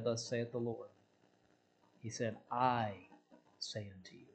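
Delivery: hushed. Shown as a demonstration. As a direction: drop to a near hush. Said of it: "Jesus never said".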